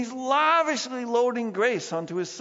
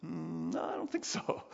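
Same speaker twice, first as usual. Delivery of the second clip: unvoiced whispered no; 10 dB quieter than usual. Shown as a demonstration. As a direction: whisper the verdict to the congregation. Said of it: "You call that obedience?".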